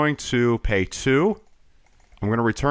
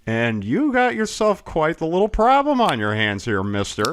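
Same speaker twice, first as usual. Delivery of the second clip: mustache twirling villain; 6 semitones higher than usual. Pretend. Gloating at opponent.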